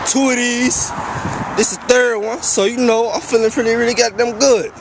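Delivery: tipsy and loose. Real, not acted. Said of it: "I'm kinda tipsy right now".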